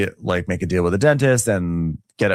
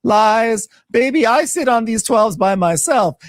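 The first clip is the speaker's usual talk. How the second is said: high, louder sassy retort; sassy mock Angela; 13 semitones higher, 4 dB louder, slower than usual. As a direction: diva brag in falsetto. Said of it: "Angela's like".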